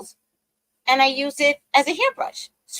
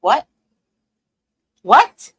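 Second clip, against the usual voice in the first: shocked; 3 semitones higher, 7 dB louder than usual. Retold or imitated. Shocked at sister.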